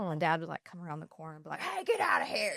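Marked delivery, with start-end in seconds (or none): 1.6-2.5 high mock holler to scare kids off; retold dad's yell. Daughter imitating dad scaring off house-rollers, mock yell. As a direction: imitate a dad chasing pranksters away.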